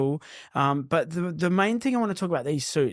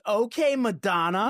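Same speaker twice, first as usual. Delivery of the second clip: high, drawn-out teasing call; imitating sassy lady; 6 semitones higher, slower than usual. Host imitating a lady teasing his partner, drawn out high. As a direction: stretch it out slow and high.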